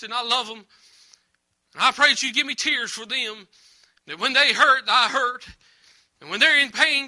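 fervent preacher's prayer, pleading with God; earnest prayer. Real, not acted. Preacher praying over the church before the sermon. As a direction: pour out the heart to God.

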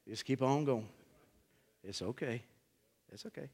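a shepherd quietly easing his sheep; shepherd's calm words. Retold or imitated. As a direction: hush them gently, keep going. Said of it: "And the shepherd says".

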